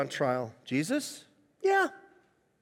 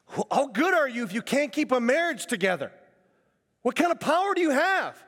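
raised-pitch indignant challenge, short of screaming; retold screaming at God; 7 semitones higher than usual. Retelling a friend challenging God after the divorce, mock screaming. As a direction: demand answers in a mild mock yell. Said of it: "I'm screaming at God".

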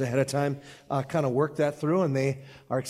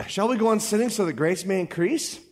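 rhetorical challenge; 5 semitones higher than usual. Shown as a demonstration. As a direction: put the question to the room, lift the end. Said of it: "What then shall we say?".

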